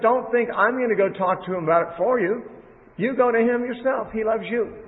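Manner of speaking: emphatic reassurance. Retold or imitated. Preacher paraphrasing Jesus's reassurance.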